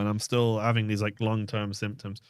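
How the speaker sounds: stuffy, sniffly voice; sniffling. Real, not acted. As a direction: talk through a sniffly nose. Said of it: "I'm blowing my nose and sniffing a lot".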